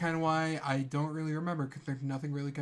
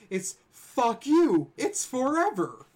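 slow drawn out loud yell; shouted catchphrase; 9 semitones higher, 6 dB louder, much slower than usual. Acted. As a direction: stretch the shout out. Catchphrase variant.

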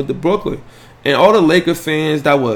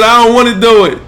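voicing the baby; 7 semitones higher, 6 dB louder than usual. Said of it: "He said".

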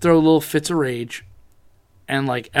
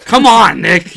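raised, exasperated appeal; retold protest; 3 semitones higher, 9 dB louder, much slower than usual. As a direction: act out pleading with a friend.

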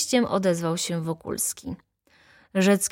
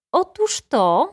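high, louder cry; triumphant exclamation; 10 semitones higher, 5 dB louder, slower than usual. A narrator's reading. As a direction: pounce on the judge's point aloud. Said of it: "zawołała baronowa". (wysoki okrzyk baronowej)

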